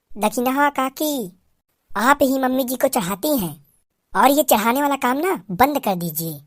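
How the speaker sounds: soft, quick daughter-in-law voice; a lightly voiced bride whispering her secret plan; sneaky young bride. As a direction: slip out quietly before anyone notices. Bride scolds aunt.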